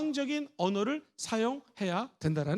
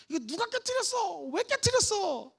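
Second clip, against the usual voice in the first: accusing parent; 7 semitones higher than usual. Shown as a demonstration. Parent scolding over a broken dish.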